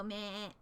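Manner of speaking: short imitated goat "meh"; goat bleat. Streamer showing the noise goats make, imitated goat bleat. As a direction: bleat it briefly, as a goat would. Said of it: "I love the noise that goats make".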